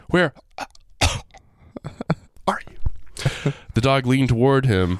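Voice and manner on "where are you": high cry fading to a frightened whisper; a hammed-up frightened cry; scared whimper. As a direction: call out in terror, voice dying away. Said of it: "he should have been like".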